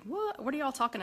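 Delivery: sudden high puzzled "What?"; surprised what. Real, not acted. Host baffled by a viewer's comment, high surprised squeak. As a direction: jump up in pitch, caught off guard.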